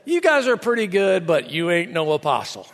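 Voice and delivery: mock southern redneck, pitch sliding down low; southern redneck accent. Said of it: "southern redneck voice".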